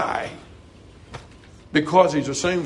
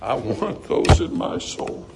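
whispered longing; 6 semitones lower, slower than usual. Real, not acted. Preacher's intimate aside.

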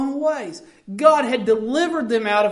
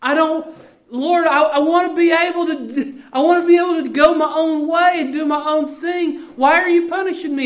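put-on raised complaining child-like plea; whining plea; 3 semitones higher, 3 dB louder than usual. Preacher voicing Israel whining to the Lord. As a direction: whine like a spoiled child to God.

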